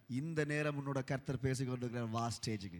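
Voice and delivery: low, hushed imitation of a pastor; lightly voiced pastor. Pastor singles him out to come up, quietly imitated summons. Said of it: "நேரடியாக என்னை கையை பார்த்து சொன்னார்".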